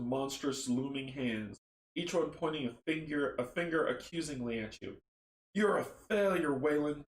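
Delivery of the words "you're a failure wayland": mild higher-pitched taunt; lightly jeering accusation. Acted. Monstrous hands accuse Wayland, mildly taunting. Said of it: "the hands taunt".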